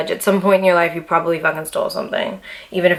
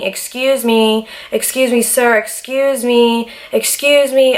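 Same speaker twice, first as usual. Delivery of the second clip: high, slow, rising calls for attention; retold screaming; 5 semitones higher, slower than usual. In the jail cell, begging the guard, high and drawn out. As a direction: keep calling the guard, climbing higher each time. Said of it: "I was screaming".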